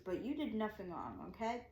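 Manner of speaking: soft, soothing quote; quietly comforting cop, imitated; retold reassurance. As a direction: gently insist there's no blame, softly. Cop reassures upset speaker, retold.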